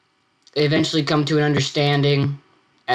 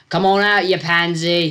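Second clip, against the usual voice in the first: higher, louder jeering call; taunting shout; 5 semitones higher, 5 dB louder than usual. Acted. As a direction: taunt him to come out. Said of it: "taunting at the wall".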